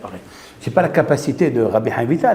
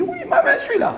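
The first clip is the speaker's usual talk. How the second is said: mock high voice. Réponse citée à l'homme.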